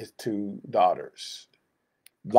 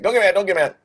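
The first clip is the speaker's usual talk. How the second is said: mock pleading; 9 semitones higher, 4 dB louder, faster than usual. Mimicking Abraham's plea.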